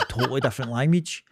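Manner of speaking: talking through a laugh; amused, laughter breaking into the words. Real, not acted. Laughs while making the point.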